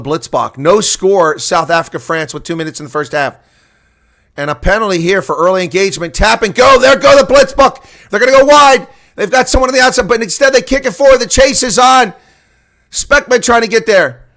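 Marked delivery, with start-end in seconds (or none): 6.1-14.3 high, loud, rising rush of a call; excited play-by-play. Real, not acted. Commentator calling the Blitzbach quick tap, excited and loud. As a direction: ride the wave of the attack, calling every pass.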